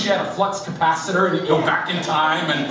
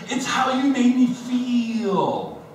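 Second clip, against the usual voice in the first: wife's line; 5 semitones higher, much slower than usual. Retold or imitated. Wife quoted in marital spat.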